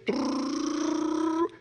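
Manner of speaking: high buzzing trill for the camera; a quick high rrr as tape runs; rolling noise. Retold or imitated.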